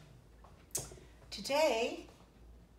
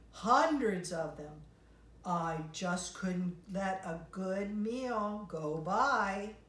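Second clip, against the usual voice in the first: pelican voice. Acted. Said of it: "the pelican".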